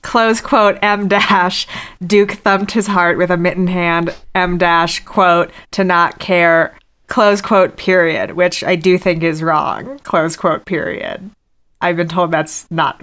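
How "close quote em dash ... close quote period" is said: reading aloud with punctuation named; dictating. Shown as a demonstration. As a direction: say every quote mark and period aloud. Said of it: "would you read this third and final passage".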